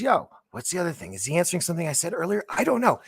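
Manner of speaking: rushed bewildered chatter; baffled rambling. Retold or imitated. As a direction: rattle it off puzzled. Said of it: "he says".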